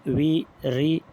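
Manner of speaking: वेरी broken into ve, pause, ri; syllable by syllable. Shown as a demonstration. Teacher showing two syllables, वेरी split as ve, ri. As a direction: sound out वेरी one syllable at a time. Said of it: "वेरी में कितने syllable है?".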